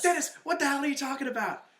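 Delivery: high-pitched imitation of bafflement; mock exasperation. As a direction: burst out at Dennis, hammed up. Acted exasperated reply from the show.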